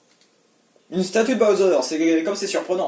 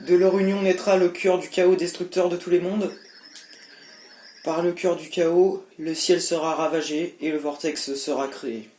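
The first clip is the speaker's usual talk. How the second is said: lightly voiced old sage; a hint of an old man. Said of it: "voix de vieux".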